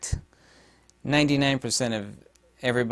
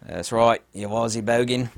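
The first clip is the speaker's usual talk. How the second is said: mock Australian accent. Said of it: "my new favorite Aussie slang term".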